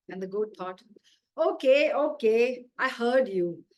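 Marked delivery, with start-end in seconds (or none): 1.4-3.6 loud, exasperated okay okay; conceding. Acted. Goat concedes to God, loud and exasperated. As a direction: goat gives in to the azan. Goat answers the call to prayer.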